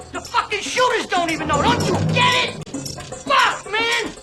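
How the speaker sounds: spiral into terrified ranting, voice cracking up high; panicked outburst. Acted. Informant breaking down before the DA, panicked high shouting.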